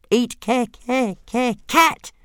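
high squeaky stammer; a tiny dragon stammering greedily; stuttering dragon. Acted. Toothless stuttering hungrily.

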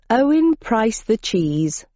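slow, friendly greeting; genial. Acted. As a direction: welcome him warmly. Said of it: "in a genial manner".

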